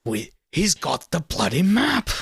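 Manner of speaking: slow mock British villain quote; British accent. Quoting Sean Bean back to the friend, British accent. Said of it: "He's like".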